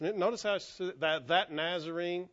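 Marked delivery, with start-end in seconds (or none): 1.3-2.3 understated pointed "that"; mildly accusatory. Shown as a demonstration. Preacher showing the servant girl's tone, mildly accusatory. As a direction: point the finger lightly with "that". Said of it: "there's just an accusatory tone to that".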